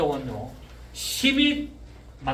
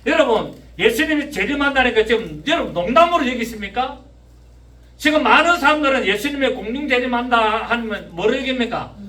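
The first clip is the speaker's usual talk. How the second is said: loud, raised-pitch sermon delivery; full-force preaching; 6 semitones higher, 7 dB louder than usual. Real, not acted. Preacher warning congregation the Son of Man will come, full-force preaching. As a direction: press each question on the congregation, loud and high.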